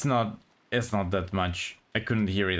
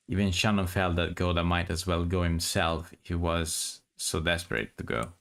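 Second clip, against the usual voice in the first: story narration; 3 semitones lower than usual. Acted. Reads the novel aloud.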